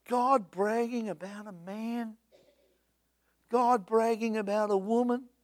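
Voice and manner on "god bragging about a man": mock devil voice. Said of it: "I reckon he probably talks more like this".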